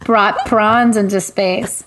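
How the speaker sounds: slow, grand epitaph reading; slow solemn epitaph. Pretend. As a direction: read it like a tombstone. Epitaph joke.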